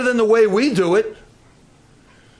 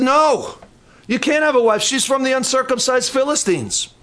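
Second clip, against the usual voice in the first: parents refusing; 5 semitones higher than usual. Retold or imitated. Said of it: "his father and his mother said".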